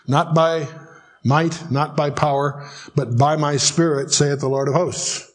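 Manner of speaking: slow, deliberate quoting of a verse; scripture recitation. Acted. Teacher recites a well-known verse to a class, scripture recitation. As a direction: recite it phrase by phrase with weighty pauses.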